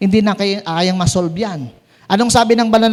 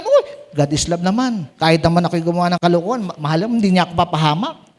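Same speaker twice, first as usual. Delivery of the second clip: careless excuse; 5 semitones lower, faster than usual. Retold or imitated. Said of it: "Kaya sabi na".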